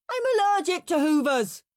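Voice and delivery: put-on high, loud whining kid; whiny protest. Henry whining an excuse to Mum.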